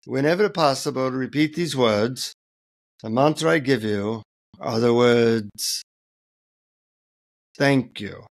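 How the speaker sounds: Indian guru solemnly imparting a mantra; Indian accent. Acted. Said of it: "in an Indian accent".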